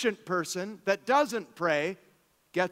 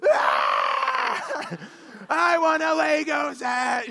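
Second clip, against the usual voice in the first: higher, louder mock wail; crying child; 9 semitones higher, 5 dB louder, much slower than usual. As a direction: whine like a jealous four-year-old. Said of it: "there's the four-year-old".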